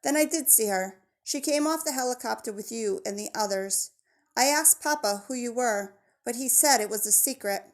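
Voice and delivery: a hint of a friendly girl with a Spanish accent; friendly jungle girl, gently accented; lightly voiced Spanish girl. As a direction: describe his mom, eager and helpful, lightly accented. Isabel continues her account.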